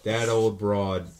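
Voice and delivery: slow, low tribute; slow solemn toast. Acted. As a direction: drag it out like a eulogy. Toast to late grandma.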